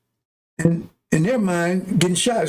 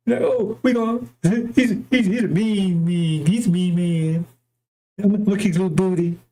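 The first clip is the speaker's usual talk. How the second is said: mock mean man. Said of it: "he gotta be talking like".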